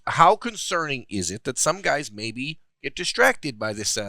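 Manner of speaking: deliberate Michigan-ish put-on accent; mock Michigan accent. Host asking about NIL distraction, in a mock Michigan accent. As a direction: keep the dubious Michigan accent going, unhurried. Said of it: "Stop talking like that".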